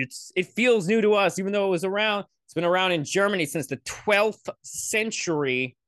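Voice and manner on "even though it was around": normal talking voice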